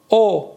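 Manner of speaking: «او» as an easy round "o"; simple "o" vowel. Shown as a demonstration. Teacher shows students the easy big vowel, pure "o". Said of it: "به همین راحتی او".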